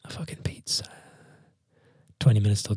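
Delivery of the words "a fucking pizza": P=A; stunned whisper. Real, not acted. Disbelief at friends' pizza.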